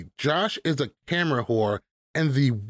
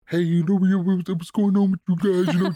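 agitated confrontation; 4 semitones higher than usual. Retold or imitated. Acting out upset Josh confronting CT.

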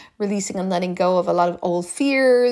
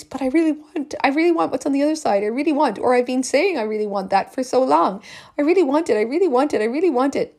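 higher, eager pleading; yearning inner voice; 4 semitones higher, faster than usual. Retold or imitated. The hopeful inner voice, pleading higher. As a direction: heart pushing for the other side. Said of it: "this other voice".

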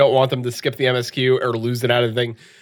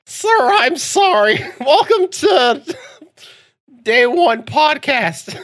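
laughing mock voice; 11 semitones higher, much slower than usual. Mock-formal apology, laughing.

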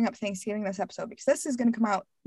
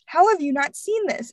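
mock disbelief; 8 semitones higher, slower than usual. Friends asking about missed movies.

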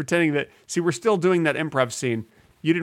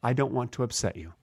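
mock sincere apology; 2 semitones lower, 5 dB quieter than usual. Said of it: "In all, in all seriousness".

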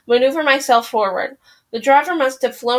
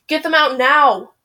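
urgent yell; 3 semitones higher than usual. Acted. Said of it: "I yell".

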